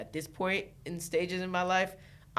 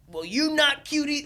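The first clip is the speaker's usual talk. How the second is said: high-pitched, louder petty comeback; mock clapback; 10 semitones higher, 6 dB louder than usual. Host imagining answering someone who called her not cute, mock clapback. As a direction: throw back a mock-petty retort.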